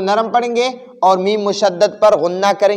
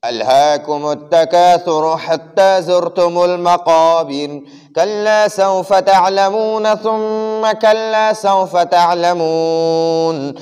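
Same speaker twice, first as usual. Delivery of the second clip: Sheikh Shuraim style; 2 semitones lower, much slower than usual. Retold or imitated. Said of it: "Sheikh शुरैम साहब की आवाज़ में".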